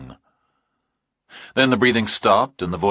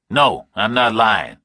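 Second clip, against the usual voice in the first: louder, higher, tense; tense Burke; 5 semitones higher, 7 dB louder, slower than usual. A narrator's reading. Burke answering the kidnapper, tense and louder. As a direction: push through nerves.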